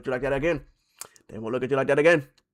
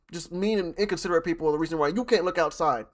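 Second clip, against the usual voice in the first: mock mother; 3 semitones higher than usual. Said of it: "Yeah, little Jimmy".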